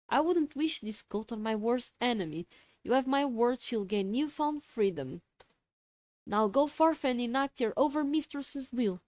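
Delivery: lightly voiced imperious boss; grand, commanding cult leader; haughty boss voice. Boss voiced over comms.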